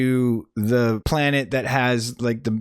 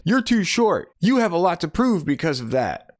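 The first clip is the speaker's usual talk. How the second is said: mock big brother; 6 semitones higher than usual. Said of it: "the taller one says".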